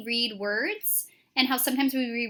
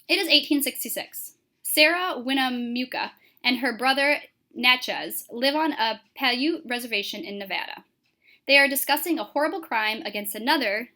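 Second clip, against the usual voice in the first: story narration; 3 dB louder than usual. Acted. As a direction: clear scene-setting reading voice. Teacher reads the scene setting.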